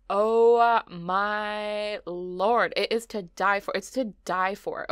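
long drawn-out Southern "oh my lord". Real, not acted. Vlogger gushing over the furniture, old Southern lady drawl. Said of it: "I just sounded like an old Southern lady".

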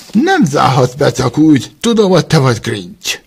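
loud indignant protest. Acted. Prisoner protests to Grinch, loud and indignant. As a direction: protest being locked in.

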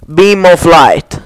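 slow, solemn incantation; casting a spell. Pretend. The streamer casts a spell in the game, slow and solemn. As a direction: intone the spell slowly.

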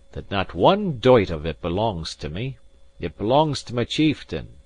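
lightly voiced Scots gentleman, firm and proud; proud Highland gentleman. Gentleman firmly refusing the captain, lightly voiced proud Highlander.

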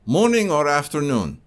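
put-on calm customer question in a Russian accent. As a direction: ask it evenly in a Russian accent. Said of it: "if you didn't like my Russian accent".

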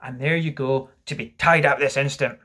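loud, stern order; cried out. Acted. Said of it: "he cried".

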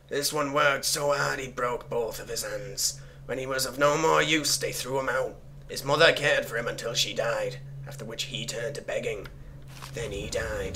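measured, solemn reading of a dark note; story narration. Acted. Player reading cultist scribblings aloud, measured storytelling. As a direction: recite it deliberately, line by line.

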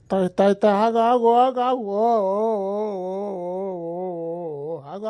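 loud driver's halt; calling bulls to stop. Acted. Driver shouting at runaway bullocks to stop, loud.

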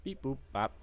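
chirpy mock computer beeps; robot beeps. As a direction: beep it out like a gadget. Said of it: "It's just beep boop bop".

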